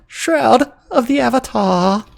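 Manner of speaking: high, slow and drawn out; dramatic announcer. Acted. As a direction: stretch it like a big show title. Dramatic show sign-off.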